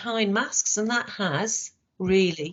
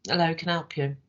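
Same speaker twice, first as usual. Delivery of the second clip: bored greeting; faster than usual. Shown as a demonstration. Trainer contrasting an unwelcoming customer greeting. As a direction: sound like the customer is a bother. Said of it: "Same words, different tone".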